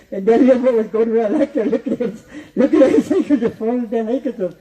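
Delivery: words bubbling through real laughter; laughing while telling. Real, not acted. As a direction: tell it while you can't stop laughing. Teller laughing at his own story.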